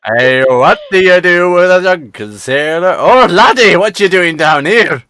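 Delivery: a hint of a jolly old sea cook, laddie; lightly voiced pirate cook. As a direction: play the ship's cook, friendly and sly. Game master plays pirate cook.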